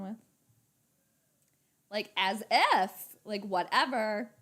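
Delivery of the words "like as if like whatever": lightly mocked Valley girl; Cher from Clueless. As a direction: toss it off like a movie Valley girl. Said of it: "Cher from Clueless".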